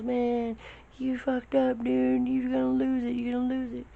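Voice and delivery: very high yelled warning; high strained shout mid-air; shouting over wind. Retold or imitated. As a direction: yell at him that he's messed up. Instructor yelling over wind.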